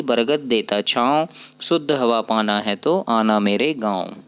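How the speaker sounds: put-on slow, sing-song reading of a children's poem; poem recitation. Teacher reciting the village poem to her class, slow and rhythmic. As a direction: recite it slowly for young pupils.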